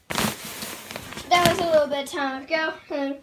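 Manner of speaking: panting after the stairs; out of breath. Real, not acted. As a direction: talk while short of breath. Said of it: "I'm out of breath".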